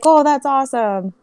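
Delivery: mock excited. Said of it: "I was like".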